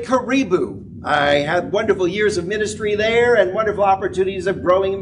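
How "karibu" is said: karibu said ka-REE-boo, stress on ri; Swahili word. Shown as a demonstration. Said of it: "they say".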